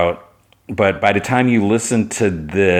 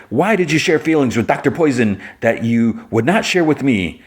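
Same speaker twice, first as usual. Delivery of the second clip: higher, lightly acted accusation; hurt reproach; 5 semitones higher than usual. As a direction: play a wounded friend demanding answers. Kara's quarrel with Jimmy.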